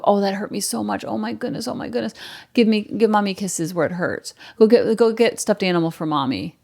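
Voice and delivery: put-on pained, pleading mommy showing the child it hurt; a parent acting hurt to teach a small child remorse. Shown as a demonstration. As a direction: play the wounded parent so the child feels it. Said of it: "And you talk like that too".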